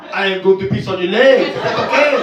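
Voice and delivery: mock French accent, loud; imitating a Frenchman asking politely. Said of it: "I think he obviously said".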